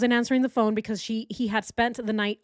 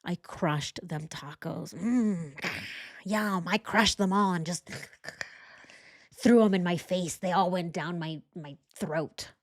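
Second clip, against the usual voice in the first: lightly voiced mock bro; mocking bro bragging about his food; Chris; 3 semitones lower than usual. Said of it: "He's such a bro".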